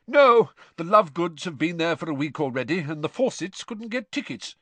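lightly blustery jovial character voice; hearty, genial father. A narrator's reading.

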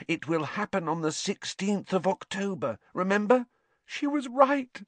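high, tearful melodrama; distraught, theatrical grief; tragic. A narrator's reading. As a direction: lament in a high wailing voice. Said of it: "said Lavender tragically".

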